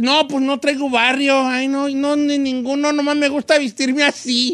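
imitating a fake cholo. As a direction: play the poser backing down. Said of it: "Si tú dices".

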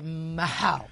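"miau" with a breathed h, "ma-hau"; Swiss miau. Shown as a demonstration. Struggling to show the Swiss cat sound, "miau" as ma-hau. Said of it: "no lo puedo decir porque".

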